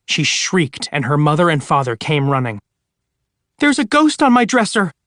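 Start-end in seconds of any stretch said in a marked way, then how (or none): 3.6-4.9 much higher, a touch frightened; mildly scared. Acted. Sarah tells her parents about the ghost, mildly scared. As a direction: tell parents with a hint of fear. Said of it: "she said, trembling".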